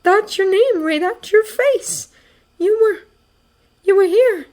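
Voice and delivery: high-pitched, choked pleading; strained with emotion. A narrator's reading. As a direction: insist through an aching throat. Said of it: "It's hard to speak".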